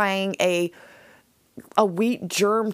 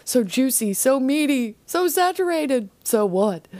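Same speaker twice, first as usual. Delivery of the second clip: savoring; 4 semitones higher than usual. Retold or imitated. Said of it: "after he says".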